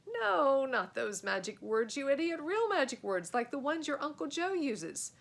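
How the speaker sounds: high, loud impatient correction; exasperated scolding. Acted. Fred scolds Joe for the wrong magic words. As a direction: snap at your friend in panic.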